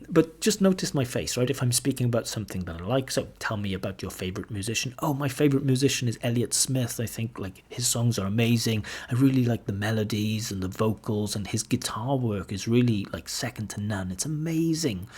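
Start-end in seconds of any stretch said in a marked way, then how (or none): 5.0-15.1 bright, upbeat demo of liking; happy intonation. Shown as a demonstration. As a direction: sound pleased about a favorite. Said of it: "You can see my face. I'm kind of smiling".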